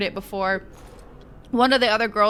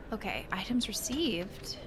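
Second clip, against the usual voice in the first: much softer murmured item list; quiet murmur; 13 dB quieter, slower than usual. Real, not acted. Player reading out received items, murmured softly. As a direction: read the loot under your breath. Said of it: "reading loot softly".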